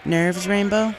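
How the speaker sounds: a touch of a brisk flight leader; Spitfire's voice. A narrator's reading. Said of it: "Spitfire asked".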